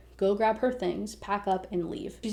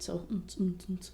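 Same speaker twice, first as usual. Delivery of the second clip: soft hummed thumping bass; party beat imitation; 2 semitones lower, 9 dB quieter than usual. Teller filling in party background, soft imitated beat. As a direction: mimic muffled party music under your breath. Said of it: "in the background".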